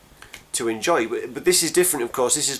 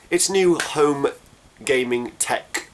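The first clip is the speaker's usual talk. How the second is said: lightly posh English accent, slower on the last words; a touch of posh English, raised and drawn out; a bit posh; slower than usual. Real, not acted. Vlogger slipping into a slightly posh English accent. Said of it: "I went a little bit posh there".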